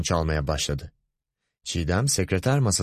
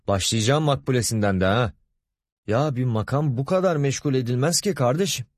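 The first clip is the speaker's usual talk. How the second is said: exasperated grumbling, pitched up; söylenerek; 6 semitones higher than usual. A narrator's reading. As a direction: complain irritably as you settle in. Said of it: "Söylenerek masasına oturdu". (sinirle söylenerek)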